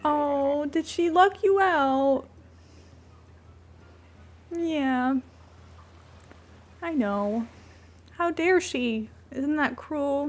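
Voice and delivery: cooing mock sympathy for a pet; pet-talk sympathy. Owner consoling a locked-out pet, cooing sympathy. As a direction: commiserate with the cat, playfully.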